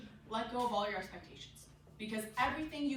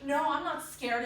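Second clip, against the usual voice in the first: denying fear; 7 dB louder, slower than usual. Acted. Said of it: "try to fight the fact that they're scared".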